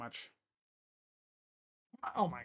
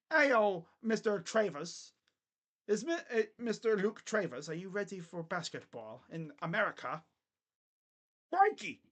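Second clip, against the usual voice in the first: bad Australian accent; 2 semitones higher than usual. Vlogger pretending to call Luke Travers to America, botched Australian accent. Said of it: "I cannot do an Australian accent".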